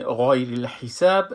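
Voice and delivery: غیر الحساب slow with a thick gha and light hi; heavy ghain recitation. Shown as a demonstration. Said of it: "سر حرف".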